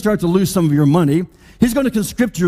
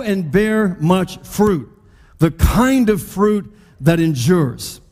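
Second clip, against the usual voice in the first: reading scripture aloud together; much slower than usual. Shown as a demonstration. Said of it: "Why don't you read it with me?".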